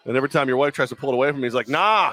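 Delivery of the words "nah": put-on Ted Kennedy accent. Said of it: "the Ted Kennedy accent comes out".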